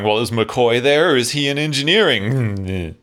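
mildly snarky imitation of the captain. Captain jabbing at the missing chief engineer, mildly snarky. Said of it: "is snarkily going".

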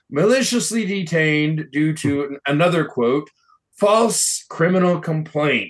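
sceptical quoting of his claim; air quotes. Shown as a demonstration. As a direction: read the quote with doubt.

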